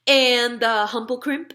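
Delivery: put-on friendly giant talking to a little girl; BFG giant voice. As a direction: play the big friendly giant, earnest and muddled. BFG listing creatures.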